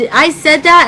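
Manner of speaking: loud mocking repeat of dad's line; indignant mock quote. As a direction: throw his words back at him, indignant. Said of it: "He said".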